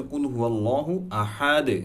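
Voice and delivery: আহাদ ending in a light bounced "de"; qalqalah demo. Shown as a demonstration. Teacher giving an example of echo, qalqalah on আহাদ. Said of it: "উদাহরণ দিই".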